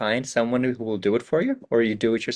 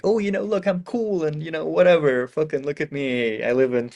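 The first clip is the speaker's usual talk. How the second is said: higher, breezy show-off voice playing the cool Kyiv tutor; mock cool hip pitch; 4 semitones higher, 4 dB louder than usual. Speaker acting out a hip tutor's video intro, higher and breezy. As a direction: sell it like a cool, casual friend in a promo video. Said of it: "maybe the first part would be like".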